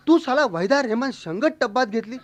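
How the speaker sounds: high-pitched incredulous question; mock astonishment. Neighbour astounded by the tub boast about Waheeda Rehman, incredulous. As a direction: pitch it up in comic disbelief.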